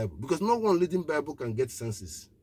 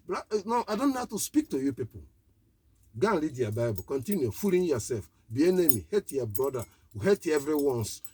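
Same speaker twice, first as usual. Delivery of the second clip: exasperated rebuke. Real, not acted. Preacher scolding his listeners in exasperation.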